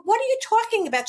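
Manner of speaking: high-pitched, quick incredulous question; taken aback, voice leaping up; retold disbelief. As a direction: reenact a startled demand for an explanation. Retold alarm at unexpected news.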